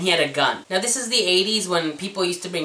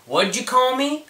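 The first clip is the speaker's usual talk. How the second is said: pissed off; 8 semitones higher than usual. Retold or imitated. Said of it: "Cameron got pissed and said".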